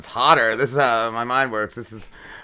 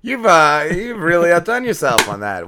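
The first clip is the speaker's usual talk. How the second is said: mock amazement; 9 semitones higher, 7 dB louder, slower than usual. Mock praise of friend's trap.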